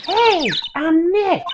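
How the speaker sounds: drawn-out loud hey and name. Acted. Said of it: "Maybe I'm not saying it loud enough".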